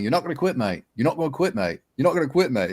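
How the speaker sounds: high-pitched mock Australian pleading; insistent Australian imitation. Imitating friend calling to stop him quitting, insistent Australian accent. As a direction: repeat it insistently as the Australian mate.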